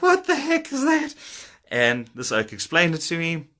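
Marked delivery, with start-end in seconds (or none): 0.0-1.2 high, puzzled yelp; confused kid hearing jargon; baffled. Retold or imitated. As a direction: sound completely lost by the word. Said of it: "And I was like".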